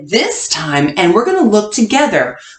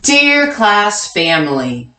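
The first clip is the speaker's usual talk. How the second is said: read-along. Shown as a demonstration. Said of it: "Well, read it with me".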